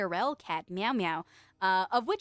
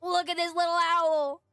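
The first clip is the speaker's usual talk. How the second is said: higher and louder, cutesy; excited gush; 5 semitones higher, 4 dB louder than usual. Real, not acted. Streamer urging chat to look at the little owl, excited. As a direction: show it off with glee. Gushing over tiny owl.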